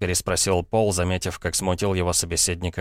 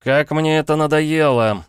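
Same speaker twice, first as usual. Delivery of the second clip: higher, louder, slow, fed up; exasperated exclamation; 10 semitones higher, 6 dB louder than usual. Acted. Paul, worn down by mockery, exclaims loudly. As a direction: let the frustration burst out. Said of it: "воскликнул Пол".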